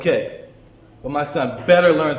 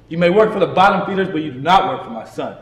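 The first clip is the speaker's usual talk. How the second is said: fast, louder sneering jab; angry retort; 3 semitones higher, 4 dB louder than usual. Acted. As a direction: snap back at the teacher fast and hard. Angry parent confronts teacher.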